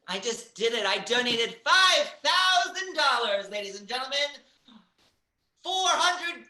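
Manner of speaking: emphatic fundraiser announcement; big, loud boast on the donation amount; hyped host appeal. Acted. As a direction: sell the donation like a showy host.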